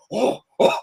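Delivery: high excited chimp hoots. Retold or imitated. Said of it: "they're like".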